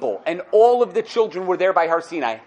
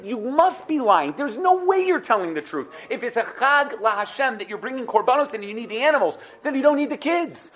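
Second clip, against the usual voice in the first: mock angry Pharaoh; 6 semitones higher than usual. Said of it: "he got angry at Moshe".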